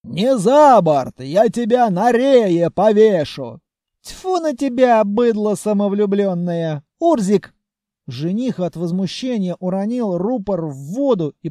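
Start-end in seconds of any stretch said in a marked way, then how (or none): 0.0-3.6 louder, slow, outraged threat; choking with rage. Acted. Furious groom threatens the hero with hanging, outraged. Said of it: "у жениха аж дыхание спёрло". 4.0-7.5 indignant. Acted. Groom spits insults.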